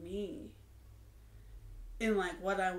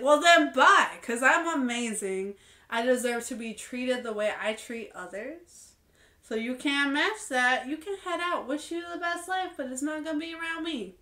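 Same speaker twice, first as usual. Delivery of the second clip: louder, higher, sassy goodbye with a flip; sassy brush-off; 4 semitones higher, 7 dB louder than usual. Retold or imitated. Telling off someone who won't treat her right, loud and sassy. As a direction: wave them off proudly, you're amazing.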